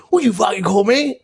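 high, challenging mock yell; a big drunk man squares up to the narrator, high mock yell; mock aggressive shout. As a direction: square up and demand it. Thug confronts narrator.

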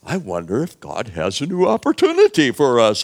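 upbeat realization. Acted. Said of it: "They said".

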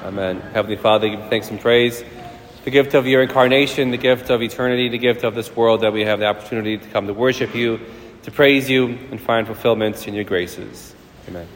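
measured, reverent prayer voice; solemn liturgical prayer. Acted. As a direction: pray it out to the congregation. Opening prayer.

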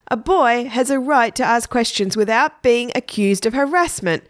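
put-on boy standing up for himself, mildly affronted; lightly voiced indignation; indignant. A narrator's reading. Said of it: "Egbert said indignantly".

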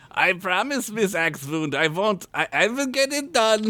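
nervous promise. Acted. The minion nervously promises the witch.

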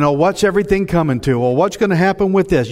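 quick, worried mimicry; fast, fretful questions; mock fretting. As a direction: imitate an upset news watcher, hurried. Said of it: "you're upset. You've lost hope".

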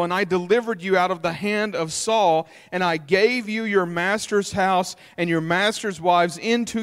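preaching at full force. Acted. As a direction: deliver God's judgment with fire. Preaches God's words to David.

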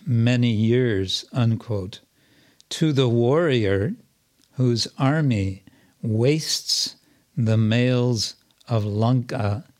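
slow, measured verse recitation; poem reading. Acted. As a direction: read it as a poem, with long pauses between phrases. I'll just read the poem.

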